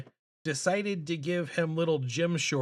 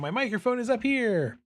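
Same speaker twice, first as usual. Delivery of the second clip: raised, higher voice aimed at the microphone; talking up; 8 semitones higher, 3 dB louder than usual. Shown as a demonstration. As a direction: pitch it up toward the mic. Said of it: "looking down and mumbling instead of talking".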